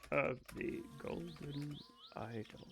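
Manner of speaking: Case of the Golden Idol fading soft and slow; trailing off. Shown as a demonstration. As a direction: let Case of the Golden Idol die away wistfully. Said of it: "I look like, okay".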